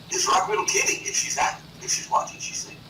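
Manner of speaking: ordinary talk, nothing marked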